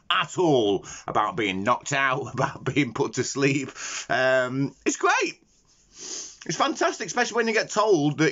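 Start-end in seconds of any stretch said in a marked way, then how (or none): 4.8-8.3 sarcastic. Real, not acted. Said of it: "That really puts your mind at ease".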